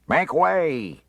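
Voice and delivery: high, loud call to clear the crowd; shouting make way through a crowd; bawling. A narrator's reading. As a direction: bellow it to part the crowd. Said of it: "he bawled".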